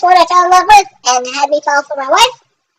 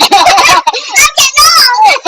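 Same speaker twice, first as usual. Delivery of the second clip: mock lament; 11 semitones higher, 3 dB louder, slower than usual. Cohost lamenting his age.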